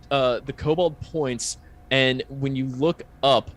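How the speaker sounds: slow, measured scene setting; game master narration. Acted. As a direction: unveil the scene piece by piece, unhurried. Game master describes frozen dragon.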